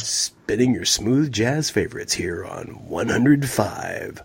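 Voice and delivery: a touch of a silky late-night radio DJ; lightly voiced smooth radio host; smooth jazz DJ. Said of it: "It's like I'm spinning the smooth jazz hits".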